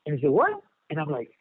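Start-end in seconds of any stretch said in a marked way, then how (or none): 0.3-0.6 retold shocked what. Cellmate hears price doubled.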